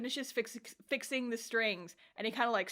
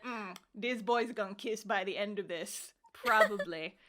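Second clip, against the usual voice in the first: bad Russian accent. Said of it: "I break out the bad Russian accent".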